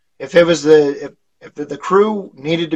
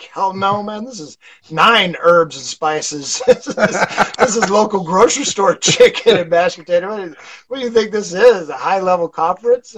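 higher, laughing, hammed-up scoff; mock indignant retort; 4 semitones higher, 3 dB louder than usual. Host answering trainees about grocery store chicken, hammed-up and laughing. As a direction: brush them off with a grin, half-laughing. His joking retort to the crew.

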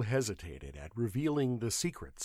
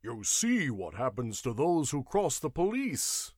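bullying guardsman; 3 semitones higher, 3 dB louder than usual. A narrator's reading. Guardsman gloats over beaten clerk.

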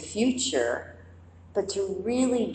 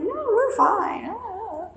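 much higher, breezy and carefree; oblivious movie character; slower than usual. Retold or imitated. The doomed character answering the audience, high and breezy. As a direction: sing it out, clueless and cheerful. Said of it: "It's like".

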